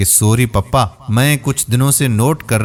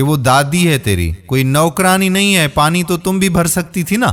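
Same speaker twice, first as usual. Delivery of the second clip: stern angry scolding, rising higher; 5 semitones higher than usual. Acted. Father angrily scolding daughter, higher. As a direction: scold her firmly, pitch going up. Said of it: "فاروق غصے سے انایا کو کہنے لگا".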